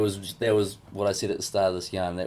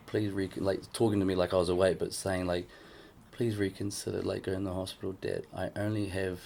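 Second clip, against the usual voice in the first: quiet tearful plea; 5 dB quieter than usual. Retold or imitated. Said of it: "she was crying".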